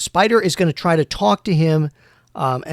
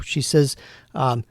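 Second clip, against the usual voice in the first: ordinary talk, nothing marked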